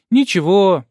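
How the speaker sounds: put-on high, easygoing little girl; good-natured child. A narrator's reading. Girl forgiving the stranger's mistake, high and easygoing. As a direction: shrug it off kindly like a kid. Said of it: "беззлобно откликнулась Нина".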